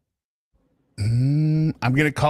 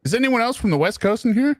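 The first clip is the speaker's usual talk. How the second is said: high, raised voice calling to the room; 11 semitones higher than usual. Real, not acted. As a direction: call out the question to everyone.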